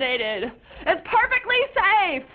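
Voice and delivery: slow, spelled-out insistence; teen repeating it slowly to parents; slow emphatic. Acted. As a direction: drag each word out deliberately.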